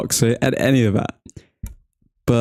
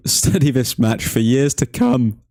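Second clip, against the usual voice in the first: voice crack; 2 semitones higher than usual. Real, not acted. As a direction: voice cracking mid-line with a laugh. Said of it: "Cheeky voice crack".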